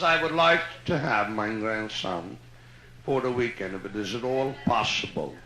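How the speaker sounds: a lightly voiced grandmother asking politely, Yiddish accent. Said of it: "I love Jewish dialect stories".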